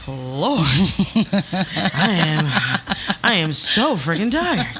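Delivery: breathless laughing complaint; laughing exhausted. Retold or imitated. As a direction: laugh through being worn out. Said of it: "I'm like".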